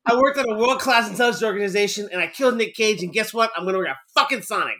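quoting the line while laughing; laughing retelling. Retold or imitated. Retelling the Sonic line to friends, laughing. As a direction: giggle through the quote. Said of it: "he's like".

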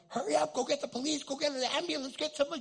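loud, high, urgent shouting; urgent call for help. Retold or imitated. Chaplain sends people for an ambulance, retold urgent shouting.

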